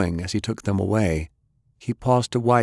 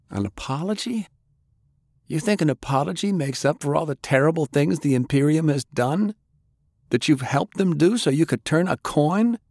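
higher, scornful disbelief; incredulous anger; 9 semitones higher than usual. Acted. Grandson scorning his grandfather's idea of an apology, angry. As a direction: throw the apology back in his face.

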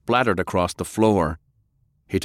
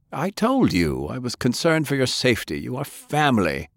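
put-on old man voice; 6 semitones higher than usual. Grandfather voiced in dialogue.

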